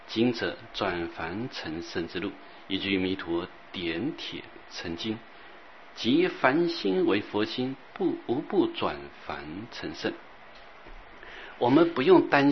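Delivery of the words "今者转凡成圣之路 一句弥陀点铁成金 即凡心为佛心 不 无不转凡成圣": slow, measured verse reading; verse recitation. Acted. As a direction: recite each line with long drawn-out words.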